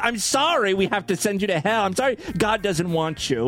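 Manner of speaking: high, sing-song mock of a pious mother; mocking preachy mom. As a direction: lay on the sugary condolence.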